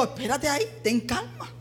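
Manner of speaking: soft, hushed reassuring aside; quiet, tranquil voice; calm reassurance. Acted. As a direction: gently settle someone who is worried. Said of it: "tenemos esa tranquilidad que tenía".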